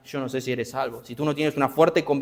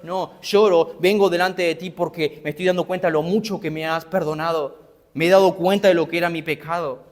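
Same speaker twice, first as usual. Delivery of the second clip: weeping woman; 4 semitones higher, 3 dB louder than usual. Acted.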